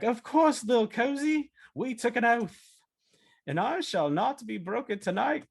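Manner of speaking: high, theatrical pledge with stretched-out words; mock-epic declaration, high and ringing; grand oath. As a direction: swear it like a solemn, over-the-top club vow. Acting friends' solemn sleepover oath.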